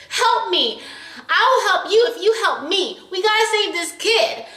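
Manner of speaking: high, urgent begging; desperate plea. Retold or imitated. Heroine begs the Grim Reaper for help, high and urgent. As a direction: beg him to help save the kid.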